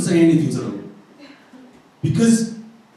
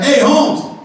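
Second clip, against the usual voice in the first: friendly laughing directions; 6 semitones higher than usual. Retold or imitated. Pointing thieves to stairs.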